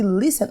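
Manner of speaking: listen stressed on LIS; stress on first syllable. Shown as a demonstration. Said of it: "a sílaba tônica tá lá no iniciozinho". (listen com tônica no LIS)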